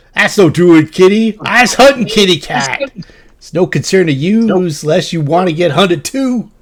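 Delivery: very high, loud, shouted voice. A voice answers the party's call about the kitty, shouting back. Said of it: "a voice that shouts back".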